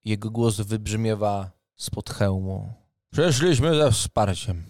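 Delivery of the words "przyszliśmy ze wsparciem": formal booming knight captain; proud knight. Acted. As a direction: announce yourself with noble pride. GM voices knight Leopold.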